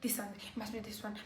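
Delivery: unvoiced, soft anxious whisper; hushed racing thoughts; whispered inner thought. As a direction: whisper it to yourself in worry.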